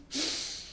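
sharp forced double exhale; double breath demo. Shown as a demonstration. Demonstrating Master's double breath to devotees, sharp exhale. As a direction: push the breath out twice. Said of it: "Another is just the double breath".

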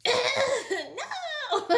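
loud, high exasperated cry; re-enacted annoyed outburst; annoyed refusal. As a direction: blurt it out, high and loud, half laughing. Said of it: "I was just so annoyed".

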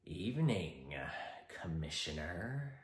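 low, quiet, mockingly polite Joker; icy polite interrogator. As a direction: greet him with cool menace. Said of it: "interrogation scene involving Jim Gordon, Batman, and the Joker".

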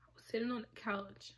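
very soft, voiceless whisper; real whisper while describing the couch scene. Real, not acted. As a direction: drop to a hush as if it hurts to say. Hushed retelling of the abuse.

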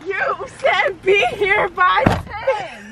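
slow, deliberate insisting; slow insistent. Real, not acted. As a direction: spell it out slowly. Friends bickering in car.

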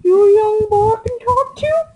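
squawky cartoon duck voice. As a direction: quack the words like a duck. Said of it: "Are you the duck voice?".

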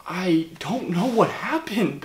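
slow, breathless whisper; whispered confusion. Acted. Whispered confession to fans, baffled. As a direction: whisper it like you can't believe it.

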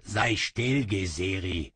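curt, mildly irritated order; annoyed. Acted. Sorcerer irritably silences his demon. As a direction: brush off the pest. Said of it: "sagte Kaba ärgerlich".

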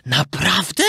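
gladly surprised little voice; rising, wide-eyed question; delighted puppet boy. A narrator's reading. Puppet hearing of riches, delighted question. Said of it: "ucieszył się Pinokio".

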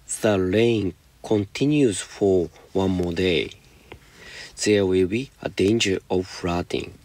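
slow, careful read-aloud of the English sentence; slow example reading. Shown as a demonstration. Teacher reading the example to students, slow and deliberate. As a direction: spell it out slowly for the class.

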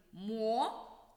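Мо-лод-ці in three separate beats; split into syllables. Shown as a demonstration. Teacher showing pupils the three syllables, Мо-лод-ці. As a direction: tap out Мо, лод, ці. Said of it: "ми вимовляли слова частинками".

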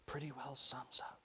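put-on slow, soft whisper of a child; whispered repeat. A narrator's reading. Little boy repeating Rennie's words, whispered. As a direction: whisper it slowly, trying out the words. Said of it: "repeating him in a whisper".

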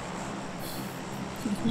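low, soft breathy laugh; real quiet chuckle; amused laugh. Real, not acted. Laughs at teammates' joke.

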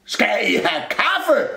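slow, high cupboard holler; shouted question. A narrator's reading. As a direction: call the question out slowly. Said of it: "råbte skabet". (råber langsomt)

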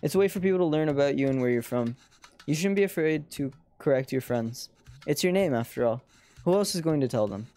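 put-on gently advising parent in an Indian accent; soothing Indian-accented parent. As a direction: reassure a child with a light Indian accent. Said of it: "switching between, like, my American accent and my Indian accent".

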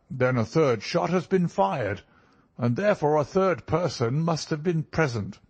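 high-pitched, animated character voice; impressed country doctor. A narrator's reading. Country doctor reasons aloud in story.

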